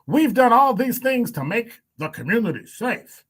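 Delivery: fake politician voice. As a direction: declaim it as a fake politician on the stump. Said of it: "that's my fake politician voice".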